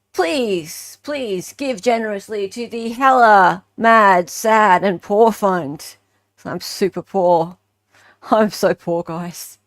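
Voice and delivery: hammed-up plea for donations; mock begging. Streamer playfully begs viewers for donations, mock pleading. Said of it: "look, I begged and it worked".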